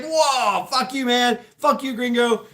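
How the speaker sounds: hammed-up angry retort; mock angry Mexican. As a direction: bark the insult back as the other guy. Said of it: "And he was like".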